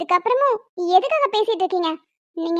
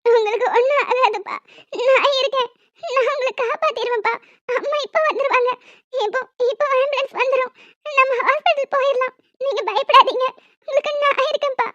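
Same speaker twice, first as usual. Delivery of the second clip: sobbing reassurance; crying comfort. Acted. Daughter comforts dying father through tears, crying. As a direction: soothe him while holding back sobs.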